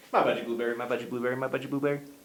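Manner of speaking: very fast, rapid, rattled-off tongue-twister delivery. Showing viewers a tongue twister to try, said very fast. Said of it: "Think I can say it three times fast?".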